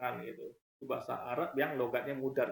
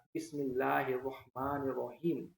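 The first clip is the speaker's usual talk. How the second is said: slow, drawn-out Arabic recitation of Bismillah; Arabic accent; slower than usual. Shown as a demonstration. Host contrasts dialects of one text, slow Arabic accent. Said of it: "Logat Arab".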